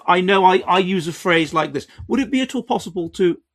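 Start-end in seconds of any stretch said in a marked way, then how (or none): 2.1-3.4 lifted, quick, extra-courteous ask; polite request. Shown as a demonstration. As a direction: ask it sweetly, raising the pitch. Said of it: "It's when I'm trying to be polite".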